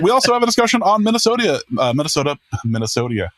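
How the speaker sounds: tripping over Minnesota, excited and fast; tongue-tied stumble. Real, not acted. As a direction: stumble on Minnesota, then settle. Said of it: "Excellent. I'm not editing that out".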